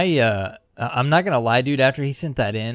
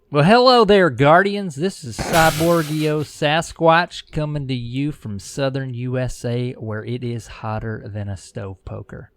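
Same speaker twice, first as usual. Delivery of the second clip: much higher and louder hammed-up southern voice, easing back down toward the end; imitating Cyborg; 5 semitones higher, 6 dB louder than usual. Cohost mocks his partner with a hammed-up, much higher and louder southern voice. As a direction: ham up a mock Southern host greeting the Guardians. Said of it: "impression of you".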